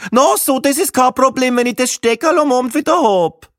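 Viennese voice. Acted. Viennese woman agrees to lend the adapter, Viennese voice. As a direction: grant it in Viennese dialect.

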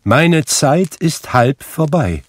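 high, slow, loud warning; admonishing. A narrator's reading. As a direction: warn that time is short, stretching it out. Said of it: "mahnte der Geist".

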